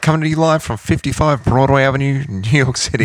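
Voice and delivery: high hyped intro announcer; talk show announcer. Pretend. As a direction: boom it out like a late night intro guy. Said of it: "Need, like, an intro guy, like, on Fallon".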